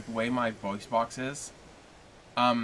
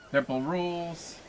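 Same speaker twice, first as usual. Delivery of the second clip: stern; 6 semitones higher, slower than usual. Pretend. Mock stern rules.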